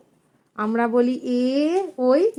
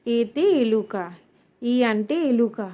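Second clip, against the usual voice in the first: slow demo; slower than usual. Shown as a demonstration. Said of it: "teacher demo of Telugu word".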